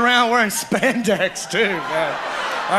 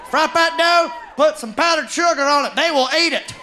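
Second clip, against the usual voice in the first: excited insisting; 6 semitones higher, 3 dB louder than usual. Retold or imitated. Excited fry cook insisting.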